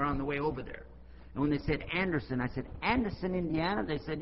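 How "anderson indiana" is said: higher, rising on Indiana; surprised question. Retold or imitated. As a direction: check the town name in mild disbelief. Questions the town he was told.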